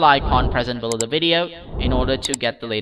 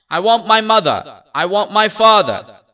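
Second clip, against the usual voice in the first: high, loud wailing; weeping cry; 7 semitones higher, 6 dB louder than usual. A narrator's reading. Lost child wails to the kind stranger, weeping. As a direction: wail it through tears. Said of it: "The child wept more bitterly than ever now".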